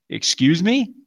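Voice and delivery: rising, incredulous excuse me; indignant excuse me. Retold or imitated. Ex picks him up from the ward, he answers in disbelief. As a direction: throw it back at her in disbelief. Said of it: "Like that".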